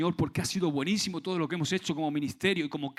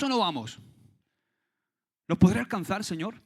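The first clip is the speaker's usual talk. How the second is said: pleading David; 8 semitones higher, 8 dB louder than usual. Acted. David voiced pleading to God.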